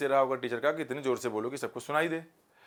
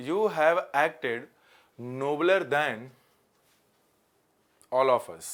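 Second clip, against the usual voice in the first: slow dictation; much slower than usual. Shown as a demonstration. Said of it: "अच्छा example है".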